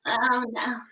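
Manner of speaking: hushed whisper of dread; whispered dismay. Real, not acted. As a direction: breathe out horrified.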